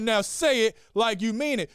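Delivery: loud, emphatic insistence; coaching dad. Acted. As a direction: drive each word home to the child. Dad repeats the demand.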